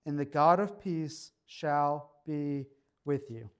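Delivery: slow, measured reading of scripture. Acted. Pastor reading Philippians to the congregation, slow and measured. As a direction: lay each phrase out slowly, like a lectern reading.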